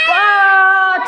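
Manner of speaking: high, loud burst of delight; excited wow. Real, not acted. Teacher cheering a shy pupil, loud delighted wow.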